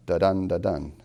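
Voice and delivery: da-dun with each DUN stressed; weak da, strong dun, like a drumbeat; iambic beat. Shown as a demonstration. Teacher shows the expected pattern, iambic beat. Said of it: "The start is not".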